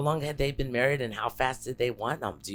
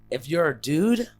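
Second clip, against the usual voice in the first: outraged; 8 semitones higher, 7 dB louder, faster than usual. Real, not acted. Outraged rhetorical question.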